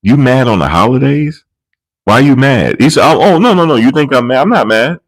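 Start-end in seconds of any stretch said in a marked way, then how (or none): 0.0-2.8 higher, teasing a grumpy dad; lightly voiced teasing daughter; teasing question. 3.1-5.0 much higher, defensive denial; hammed-up defensive dad; mock denial. Man denying he is mad.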